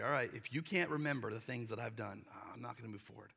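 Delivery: quiet, low, resigned verdict; God quietly refusing to lead them on. Retold or imitated. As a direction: let it drop to a weary hush. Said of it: "So God's like".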